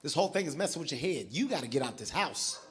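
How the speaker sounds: lightly voiced wife urging him out; wife's advice. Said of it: "My wife told me flat out".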